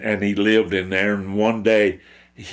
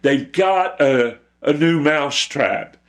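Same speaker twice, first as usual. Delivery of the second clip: higher, urgent mouse raising the alarm; worried mouse; 8 semitones higher, 4 dB louder than usual. Acted. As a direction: warn the barnyard in a pitched-up, worried voice. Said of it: "and he told the chicken".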